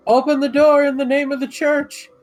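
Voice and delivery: high, loud righteous demand; commanding shout. Pretend. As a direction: order it in the church's name. Player demands entry.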